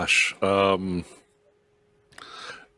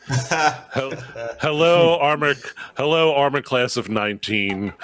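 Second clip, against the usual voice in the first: delighted cry of hello to new armor; excited hello; 3 semitones higher than usual. Acted. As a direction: greet the new armor with glee.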